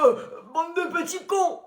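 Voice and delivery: lightly voiced cranky old man; grumpy old man. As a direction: scold the kids like an old grump.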